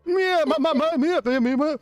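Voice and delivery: put-on parent calling kids. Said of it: "Imagine that the, the two, two kids misbehaving".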